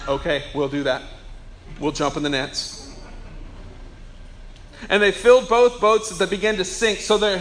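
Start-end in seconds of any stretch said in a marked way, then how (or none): 0.1-2.8 low, soft, compliant fish reply; obedient fish. Acted. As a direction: agree quietly, like fish taking orders. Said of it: "Fish are going".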